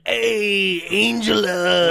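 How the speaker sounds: loud, high cheerful call; shouted greeting. Retold or imitated. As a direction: call out to the angel. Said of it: "was like".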